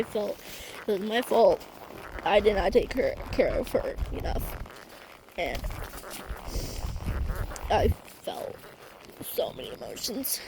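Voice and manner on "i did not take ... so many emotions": real tears, the voice dropping soft and breathy; fighting not to cry as she speaks; holding back tears. Real, not acted. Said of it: "sorry, I had to stop".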